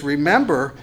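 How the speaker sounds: Remember leaned on and held with a falling tune; stress on remember. Shown as a demonstration. Preacher to his congregation, Remember leaned on hard. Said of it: "if I could just emphasize the word remember here".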